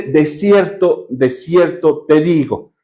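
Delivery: slow, weighty words; solemn slow emphasis. Shown as a demonstration. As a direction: spell out each word solemnly. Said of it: "pon mucha atención". (lenta y solemne)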